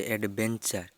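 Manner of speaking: অ্যাডভেঞ্চার said as English adventure, ad-VEN-cher; English pronunciation. Shown as a demonstration. Teacher reading vocabulary to learners, modelling অ্যাডভেঞ্চার in English. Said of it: "এর উচ্চারণ হচ্ছে".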